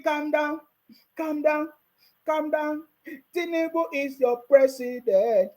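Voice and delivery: put-on teasing calm down, like hushing a baby; mocking baby talk to critics; mock soothing. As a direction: pretend to calm a fussing child. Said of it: "mock soothing the critics".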